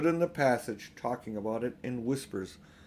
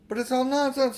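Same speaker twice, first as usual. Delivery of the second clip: taken aback; 12 semitones higher, 6 dB louder than usual. A narrator's reading. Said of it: "very taken aback".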